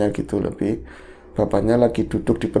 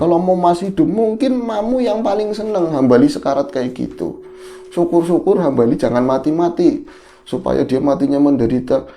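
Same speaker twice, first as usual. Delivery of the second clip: put-on a touch higher old man's grumble; lighter old father voice; 5 semitones higher than usual. Father cursing Hambali, lighter high old voice. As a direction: ease back into the bitter father. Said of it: "dengan suara tuanya begitu".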